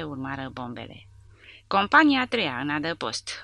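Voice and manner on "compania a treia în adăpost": commanding order. Acted. The sergeant major ordering the company into shelter, loud and commanding. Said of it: "ordonă glasul profund al lui Edders".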